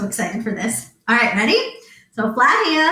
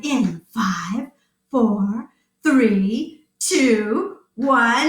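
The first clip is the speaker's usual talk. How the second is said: countdown; much slower than usual. Acted.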